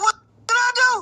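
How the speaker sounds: high, wide-eyed disbelief; squeaky incredulous question; mock innocent protest. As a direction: play your past self stunned and innocent. Retold innocent protest to officers.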